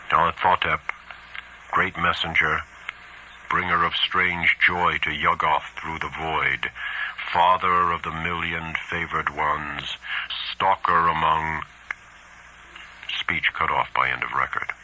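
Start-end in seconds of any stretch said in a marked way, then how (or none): 0.1-11.6 solemn, level chanting; ritual invocation. A narrator's reading. Narrator reading the cultist's invocation of the messenger, solemn chanting. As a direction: intone each title as an invocation. Recites the human voice's invocation.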